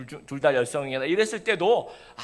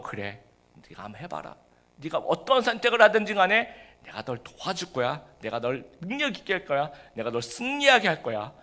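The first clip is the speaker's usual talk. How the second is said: God reassuring. Acted. God speaking reassuringly in sermon.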